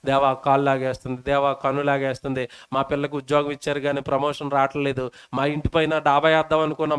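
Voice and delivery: mock a nagging petitioner; whiny prayer. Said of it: "అలా కాకుండా".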